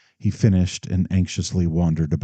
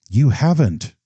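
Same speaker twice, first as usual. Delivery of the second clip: changed New England voice; 8 semitones higher, 4 dB louder than usual. Acted. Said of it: "His voice had suddenly changed".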